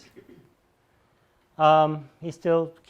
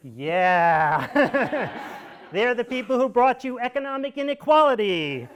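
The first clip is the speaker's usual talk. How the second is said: words squeezed out through real laughter, pitched much higher; laughing while talking; 9 semitones higher, 4 dB louder, slower than usual. Real, not acted. Lecturer mocking the Chicago economists, real laughter breaking through. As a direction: laugh your way through the line.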